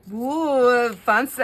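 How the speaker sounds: delighted high whoop; a bright thrilled "woo"; excited. Real, not acted. Admiring her own page.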